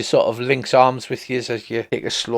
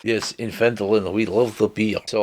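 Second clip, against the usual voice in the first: a mock Russian accent, barely put on; 5 semitones lower than usual. Game master jokes as a local about beer, in a mock Russian accent. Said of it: "That was my Russian accent".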